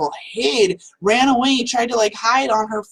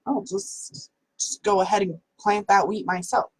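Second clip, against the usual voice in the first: fed-up hen; 2 semitones higher than usual. Acted. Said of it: "And she's like".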